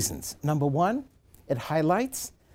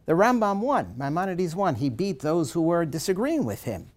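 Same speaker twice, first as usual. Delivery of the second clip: excited cry; 4 semitones higher than usual. Retold or imitated. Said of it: "cries out with the good news".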